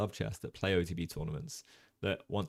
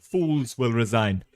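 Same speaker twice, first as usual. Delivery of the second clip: "Fools will resign" slow and louder, copying an Italian speaker; slow, louder mock Italian English line; Italian English accent; 3 semitones higher, 8 dB louder, slower than usual. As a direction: stretch it out, imitating the clip's Italian English. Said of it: "I can nail the intonation".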